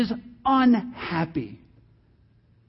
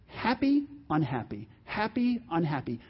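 see-saw moods; 4 semitones lower, 7 dB quieter than usual. Shown as a demonstration. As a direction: swing happy up and drop unhappy down. Illustrates Jonah's swings in mood.

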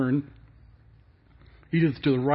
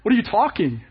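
higher, startled what; mock double take; shocked reaction; 5 semitones higher than usual. Shown as a demonstration. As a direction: stammer out a stunned what. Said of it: "the reaction should be".

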